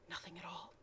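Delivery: unvoiced, very soft whisper. Narrator hushing as the children listen. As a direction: barely breathe the words. Straining to hear in woods.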